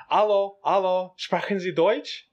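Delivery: high, slow, loud telephone greeting; imitated German phone woman. Woman on the phone greets the driver, imitated high and slow.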